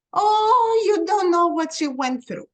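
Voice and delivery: imitating grandmother's pained cry of oh. Grandmother voiced in retold memory.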